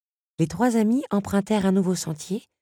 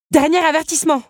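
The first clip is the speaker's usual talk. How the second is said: dernier avertissement; 12 semitones higher, 8 dB louder than usual. A narrator's reading. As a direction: menace haute et forte. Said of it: "annonça-t-elle". (Belle lance un dernier avertissement au crapaud, voix forte)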